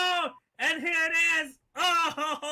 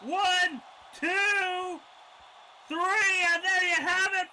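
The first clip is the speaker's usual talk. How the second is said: excited shout; 5 semitones higher, slower than usual. Real, not acted. Calling the finishing move.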